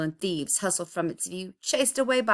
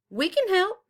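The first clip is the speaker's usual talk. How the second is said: high, eager call; 14 semitones higher, 3 dB louder than usual. A narrator's reading. Neighbors call out to Tyree, high and eager. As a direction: call out to offer help. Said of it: "neighbors called".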